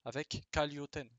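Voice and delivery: "Kalyoten" said slowly, with an L where the R is written; Japanese pronunciation. Shown as a demonstration. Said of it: "le R correspond à un L".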